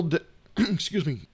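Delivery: hoarse, voice giving out; losing voice. Real, not acted. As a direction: voice cracking and giving out. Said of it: "starting to lose his voice".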